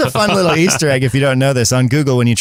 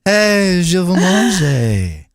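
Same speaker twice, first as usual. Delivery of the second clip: slow robotic voice; 5 semitones higher, much slower than usual. Retold or imitated. Imitating slowed Google voice.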